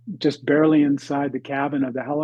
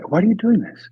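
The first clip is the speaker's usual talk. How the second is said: higher, louder, pressing himself hard; urgent self-question; 6 semitones higher, 5 dB louder than usual. Retold or imitated. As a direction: demand an answer from yourself. Retold inner voice after near fall.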